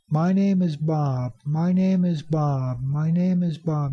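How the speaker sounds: teacher's repeated example, stressing "name" and "Bob"; sentence stress demo. Shown as a demonstration. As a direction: lengthen "name" and "Bob", lifting them above "is". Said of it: "intonation and stress".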